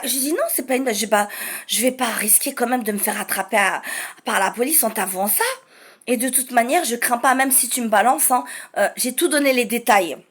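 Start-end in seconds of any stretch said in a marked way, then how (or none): 0.3-8.4 understated, unbothered cool delivery; cold psychopath. Retold or imitated. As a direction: play it cold, with no nerves showing. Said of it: "Donc, j'ai été froide".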